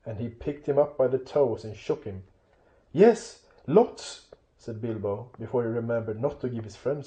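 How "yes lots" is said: high, hurried little hobbit voice; panicky blurt. Acted. Bilbo answering trolls before he thinks, high and panicky.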